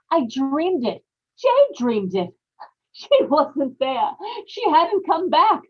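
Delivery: rising giddy hysteria, laughing at the end; frantic relief. Acted. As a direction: blurt it out in giddy disbelief. Ella frantic, finds the room empty.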